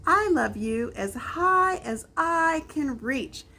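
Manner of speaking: high little hare straining upward; a small bunny reaching as high as he can. A narrator's reading.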